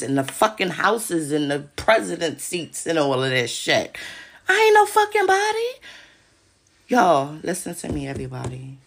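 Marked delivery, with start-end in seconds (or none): 4.5-5.7 high and loud, insisting; high loud protest. Real, not acted. Denying she runs anything, high and loud. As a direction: cry it out indignantly.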